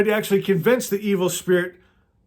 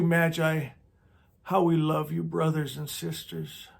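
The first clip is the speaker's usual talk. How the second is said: hushed prayerful thanks. Acted. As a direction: pray it gently to the star and spirits. Leads a group prayer.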